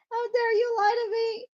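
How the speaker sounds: high, loud mock outrage, half laughing; mock angry outburst. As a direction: play the offended one, hammed-up. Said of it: "Someone's angry now".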